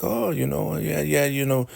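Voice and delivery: high, whiny imitation of a sulk; imitating someone miffed and pouty; mock pouting. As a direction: put on a high, huffy voice. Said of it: "she is mad, pissed off, pouting".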